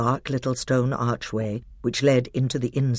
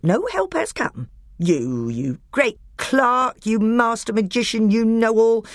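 higher, louder sneering dwarf; higher scornful dwarf; bitter dwarf; 10 semitones higher, 5 dB louder than usual. A narrator's reading. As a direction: spit it out with contempt. Nick a Brick angry dwarf.

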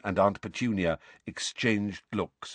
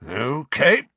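raised, tightly controlled acknowledgement; forced calm; 7 semitones higher, 6 dB louder than usual. A narrator's reading. Father keeping control before shaken son, forced calm. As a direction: hold the calm with effort. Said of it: "in a voice of forced calm".

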